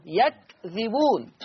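slow "يكذبون" as yakdhibun, kaf with sukun; slow recited word. Shown as a demonstration. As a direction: draw out "يكذبون" syllable by syllable. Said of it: "عندنا كلمة يكذبون". ("يكذبون" ببطء بسكون الكاف)

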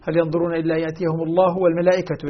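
quick recital with الله and والملائكة both ending in u; nominative ending. Shown as a demonstration. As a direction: say والملائكة as wal-mala'ikatu. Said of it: "ليس عطفًا على لفظ الجلالة".

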